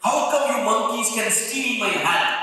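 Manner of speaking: storyteller's mock outrage; mildly angry. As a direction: tell off the thieves, mildly angry. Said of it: "He really got angry".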